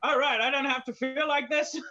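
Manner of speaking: high, loud mock sigh of relief; mock relieved outburst. Listener at their art, loud mock relief. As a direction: burst out, hammed-up relief. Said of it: "with their art just going".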